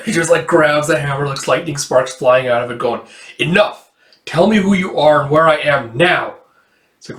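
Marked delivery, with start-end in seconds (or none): 3.4-6.4 forceful demand. Acted. Lucy grabs hammer, demands answers.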